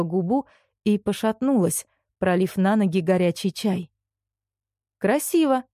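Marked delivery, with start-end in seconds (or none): 5.0-5.6 higher, approving tone; praising mother. A narrator's reading. Mother praises Anton's drawing, praising. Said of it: "похвалила Антона мама".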